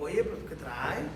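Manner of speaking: low, slow, fed-up grumble; Paul loses patience, low and drawn out; annoyed Paul. Retold or imitated. Paul fed up with the fortune teller, low annoyed grumble. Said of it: "hasta que Pablo se enfadó".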